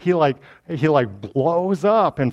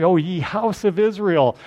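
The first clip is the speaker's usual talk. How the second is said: mildly dramatic prophet's address; a modest attempt at grand proclaiming; lightly acted public summons; prophetic proclamation; 3 semitones higher than usual. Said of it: "if I was more dramatic".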